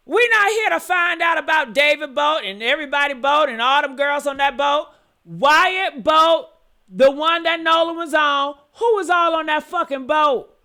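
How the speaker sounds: yelling. Real, not acted. Host yelling at viewers over the boat question. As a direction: shout it out, fed up and cussing. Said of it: "I don't mean to yell at y'all".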